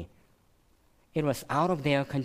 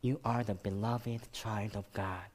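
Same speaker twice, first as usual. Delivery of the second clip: soft quoted reminder; 6 dB quieter than usual. Retold or imitated. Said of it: "we hear that again".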